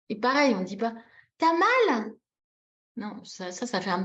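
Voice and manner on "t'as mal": high, pointed mock question; showily uncaring example; unsympathetic told-you-so. Shown as a demonstration. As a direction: ask as if it serves them right. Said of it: "C'est bien fait pour toi, je te l'avais dit".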